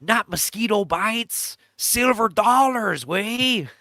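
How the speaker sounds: a hint of a Latino street guy, drawn out; Latino accent. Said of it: "in this stereotypical Latino accent".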